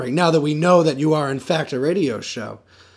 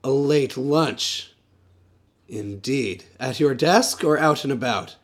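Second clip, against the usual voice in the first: suspicious; 4 semitones lower, 4 dB quieter than usual. Acted. Detective repeating suspiciously.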